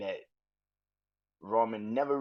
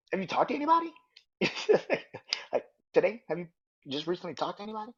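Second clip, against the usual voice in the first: suspicious questioning; 10 semitones higher, much faster than usual. Retold or imitated. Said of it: "He's like".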